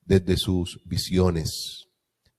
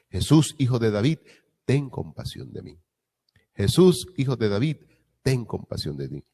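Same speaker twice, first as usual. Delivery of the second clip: pleading cry; 3 semitones higher than usual. Retold or imitated. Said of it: "Y gritaban fuerte".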